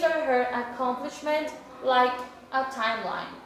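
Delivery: slow, careful classroom reading; measured English read-aloud; reading instructions aloud. Real, not acted. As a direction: read the task out slowly for learners. Reads the exercise instructions in English.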